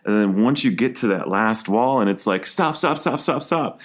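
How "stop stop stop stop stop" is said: frantic stop. Retold or imitated. Inner voice at last wall.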